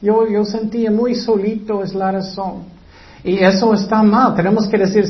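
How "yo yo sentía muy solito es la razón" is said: whiny excuse. Acted. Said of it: "No vas a decir".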